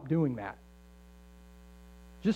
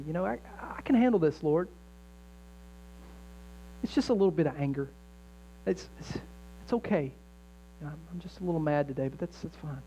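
mock dismissive excuse. Mock self-excusing prayer quote.

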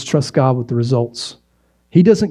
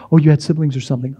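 mocking sibling; much faster than usual. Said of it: "they would say".

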